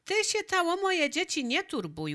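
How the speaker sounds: put-on high, pert comeback from a village girl; cheeky retort. Hanka snaps back at Waldek.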